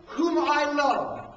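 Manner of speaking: very slow, solemn reading; voice from heaven. Retold or imitated. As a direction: speak each word slowly like a voice from heaven. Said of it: "a voice from heaven came, saying".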